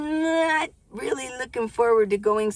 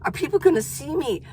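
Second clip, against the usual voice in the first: nervous inner voice; 5 semitones higher than usual. Retold or imitated. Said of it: "'cause you think".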